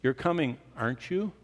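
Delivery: "You're coming, aren't you?" with the tag question lifted; expectant inflection. Shown as a demonstration. Preacher shows an inflection waiting for an answer. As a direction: ask it expecting a yes. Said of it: "the inflection in your voice where you go".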